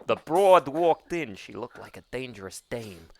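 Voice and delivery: noir detective. Pretend. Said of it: "we'll sit there going".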